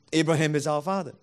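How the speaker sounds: Abraham is our father said flat and closed, no argument; a dull, dead-end reply that settles it; stubborn flat answer. Shown as a demonstration. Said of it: "just answer like this".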